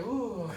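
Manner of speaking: slow, drawn-out little coo, half laughing; long, playful "uuh"; floating "uh" sound. Shown as a demonstration. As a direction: imitate drifting on a little cloud. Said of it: "así".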